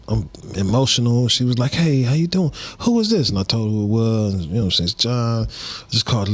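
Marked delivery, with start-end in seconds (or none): 1.7-3.3 aunt on the phone. Retold or imitated.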